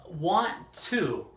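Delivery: WANT TO as two distinct words; careful, unreduced "want to"; full careful form. Shown as a demonstration. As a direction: pronounce "want to" fully, with a clear "to". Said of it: "or it could be".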